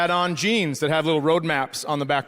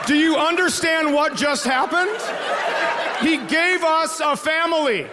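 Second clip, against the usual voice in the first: much higher, laughing, shouted; excited shout; 9 semitones higher than usual. Real, not acted. Comic shouts the punchline to the crowd, thrilled. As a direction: burst out in delighted disbelief.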